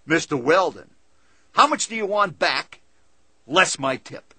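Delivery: a cab driver grinning at his passenger over the tip; big toothless grin. Retold or imitated. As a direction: say it through a huge grin. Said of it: "says with a giant, toothless smile".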